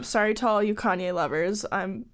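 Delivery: talking through hiccups; breath catching with hiccups. Real, not acted. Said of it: "excuse me, I have hiccups".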